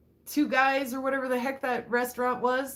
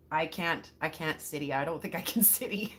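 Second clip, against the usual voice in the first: laughing; 7 semitones lower, 5 dB quieter than usual. Real, not acted. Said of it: "I'm still laughing about it".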